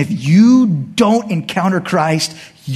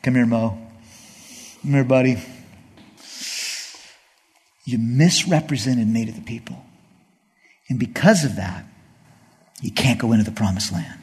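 gentle God; 3 semitones lower, 4 dB quieter than usual. Retold or imitated. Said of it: "But then God says".

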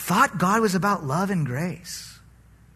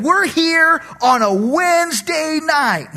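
smug boast; 10 semitones higher, 7 dB louder, slower than usual. Pretend. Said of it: "congregation talks back to pastor".

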